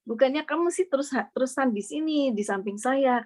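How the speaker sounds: mildly plaintive imitation of a complaint; complaining. Ailing father complains to his child about always leaving, complaining. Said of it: "dia komplain ke saya".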